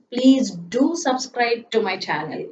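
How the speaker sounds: 重读"do"：Please do subscribe; stress on do. Shown as a demonstration. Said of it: "but I am using the extra force".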